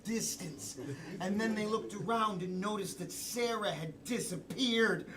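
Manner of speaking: lightly hammed suspense storytelling; horror narrator. Improviser narrating Sarah's disappearance, horror-film style. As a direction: build mild dread, pausing between phrases. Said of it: "we've got horror".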